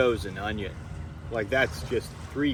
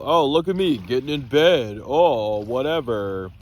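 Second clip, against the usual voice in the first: mock showy vlogger, a touch louder; hamming up a showy vlogger bit; 4 dB louder than usual. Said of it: "I'm not gonna do the whole".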